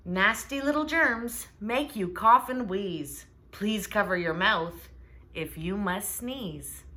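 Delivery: slow, sing-song rhyme read; poem reading. A narrator's reading. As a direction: read the little poem slowly and rhythmically. Reads the opening poem.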